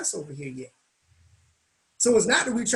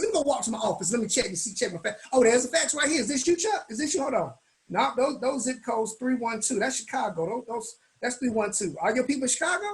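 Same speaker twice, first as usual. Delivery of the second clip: mock sarcastic; 2 semitones higher than usual. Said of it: "Now he being funny".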